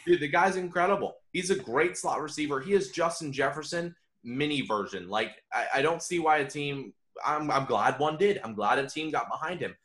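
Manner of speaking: thrilled fan gushing, voice up high; real excitement. Real, not acted. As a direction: rave about the player you love. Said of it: "I'm absolutely thrilled".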